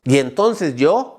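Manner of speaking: long, loud "aah" scream. Shown as a demonstration. Coach acts out a parent resorting to yelling, loud scream. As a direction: yell wordlessly as a demonstration.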